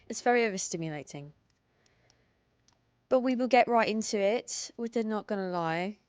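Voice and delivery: lightly put-on British streamer voice; British accent, done for fun; fake British accent. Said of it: "I was British for fun".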